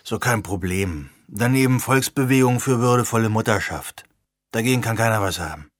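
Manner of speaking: lightly voiced cold, dismissive young man; a hint of a grumpy know-it-all; Root's voice. Root voiced lower.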